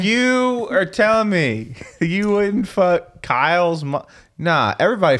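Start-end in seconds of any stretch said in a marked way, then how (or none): 0.0-4.1 slow, high drawn-out disbelief; mock incredulity. Host pressing a friend on cartoon moms, mock incredulity. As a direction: stretch it out as if scandalized.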